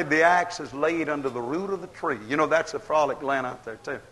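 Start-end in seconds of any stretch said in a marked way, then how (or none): 0.0-2.2 heard voice. Retold or imitated. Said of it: "I heard a voice say".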